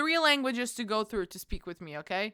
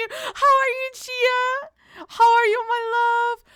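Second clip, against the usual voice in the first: cutesy high greeting; 11 semitones higher, 7 dB louder, slower than usual. Real, not acted. High sweet greeting to Chia.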